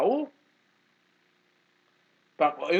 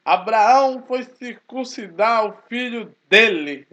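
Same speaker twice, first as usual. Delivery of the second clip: slow, a touch of authoritative scripture reading; slow, emphatic verse read, lightly imitated; professor Oswaldo's voice; 4 dB louder, slower than usual. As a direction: lightly mimic a stern reader, slow and emphatic. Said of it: "essa voz, é, autoritária".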